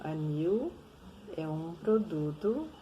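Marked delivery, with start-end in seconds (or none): 0.0-0.7 "Anil" ending like "aniu". Shown as a demonstration. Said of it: "Olha o L com som de U também". ("Anil" com L com som de U)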